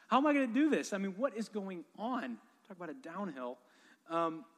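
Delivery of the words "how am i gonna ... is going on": pitched way up and louder, pleading; panicked plea, voice jumping high; desperate cry. Retold or imitated. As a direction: cry out to God in despair. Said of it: "Lord, help me".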